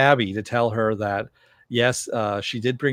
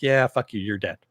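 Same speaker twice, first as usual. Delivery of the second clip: dismissive; 3 dB louder than usual. Retold or imitated. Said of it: "you're like".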